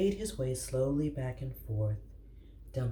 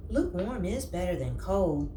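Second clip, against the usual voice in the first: hopeful; 7 semitones higher than usual. Acted. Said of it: "said Rat hopefully".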